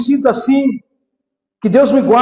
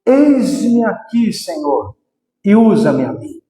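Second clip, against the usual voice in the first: slow, lower calm surrender; slower than usual. Shown as a demonstration. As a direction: say it slowly, lower and humble. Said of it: "você precisa só dizer".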